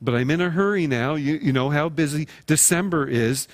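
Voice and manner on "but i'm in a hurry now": quick brush-off. Acted. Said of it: "maybe you're quick to say".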